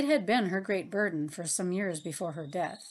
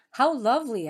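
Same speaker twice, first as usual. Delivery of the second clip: loud, higher cry of delight; 5 semitones higher, 7 dB louder than usual. A narrator's reading. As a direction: exclaim in happy wonder. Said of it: "I cried".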